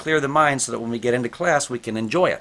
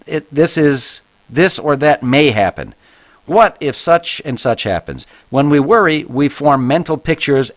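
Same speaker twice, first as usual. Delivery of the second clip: reading a book aloud; 4 dB louder than usual. Acted. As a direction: read it out to the class like a text. Reads book passage aloud.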